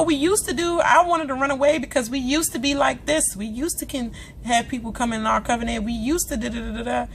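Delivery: lightly voiced Carol, whining about the old days; a hint of a nostalgic Carol; imitating Carol. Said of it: "Carol done got into his ear".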